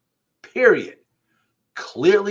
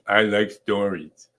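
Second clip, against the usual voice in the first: slower, drawn-out light cartoon kid voice; Bart Simpson, again slower; 3 semitones lower, slower than usual. Teacher retries the Bart voice for Molly, slower. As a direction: stretch it out like a lazy cartoon boy. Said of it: "Molly, was that a good Simpson imitation?".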